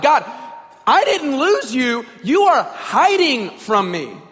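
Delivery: slow, emphatic accusation; blaming God. Acted. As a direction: lay the blame squarely, word by word. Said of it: "blame is fixed squarely on God".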